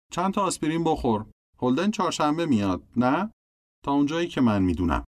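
a hint of an eager little girl pleading; little sister Phoebe. A narrator's reading. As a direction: sister coaxing her brother to touch her forehead. Phoebe talks to mother.

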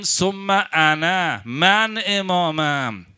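each word slow and weighty; slow emphatic declaration. Retold or imitated. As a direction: lean hard on انا. Imam declaring himself.

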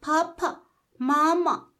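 high, loud mechanical doll chirp; the toy doll squeaks when squeezed; talking doll voice. Acted. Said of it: "ناگهان عروسک گفت".

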